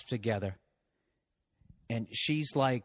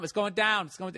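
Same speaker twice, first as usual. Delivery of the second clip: raised voice; 8 semitones higher than usual. Retold or imitated. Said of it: "I yelled over".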